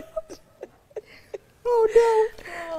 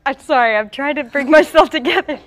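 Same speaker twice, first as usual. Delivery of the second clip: anchor stifling giggles; 5 dB louder than usual. Real, not acted. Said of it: "I'm trying not to laugh".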